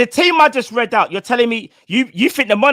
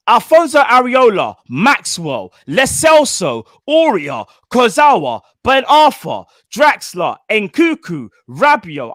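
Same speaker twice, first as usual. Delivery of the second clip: each name punched out, mostly louder; reading names with emphasis; 4 dB louder, much slower than usual. Real, not acted. Reading the rival squad to the mates, names punched out loud. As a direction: hammer every player's name like it matters. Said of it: "didn't need the emphasis".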